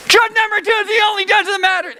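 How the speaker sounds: high-pitched, rapid outcry; forceful proclamation. Acted. Preacher overriding the rival judge, crying out. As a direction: cry it out high and fast, cutting off the argument. Preacher cries out the answer again.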